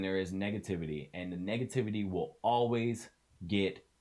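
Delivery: loud, emphatic, impassioned urging; real heated pep talk; getting real. Real, not acted. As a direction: drive the point home forcefully. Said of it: "So I know it got a little real".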